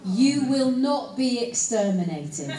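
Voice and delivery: slow, loud, lightly Dalek-like delivery; Dalek-style proclamation. Retold or imitated. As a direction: punch each word like a mild Dalek parody. Postcard message parodying Dalek catchphrase.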